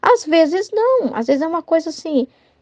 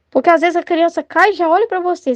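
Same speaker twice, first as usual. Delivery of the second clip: normal talking voice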